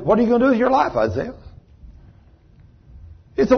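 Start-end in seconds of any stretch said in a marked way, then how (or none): 0.0-1.3 voice of God. Retold or imitated.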